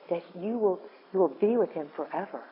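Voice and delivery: ordinary talk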